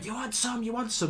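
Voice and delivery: high, taunting schoolboy voice; hammed-up teen squaring up to a teacher; mock challenge. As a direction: pitch way up and goad like a cornered lad.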